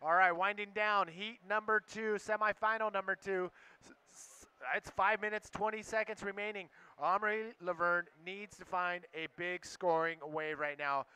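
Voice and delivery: relaxed live heat update; laid-back surfer announcer. Acted. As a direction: call the standings, easygoing.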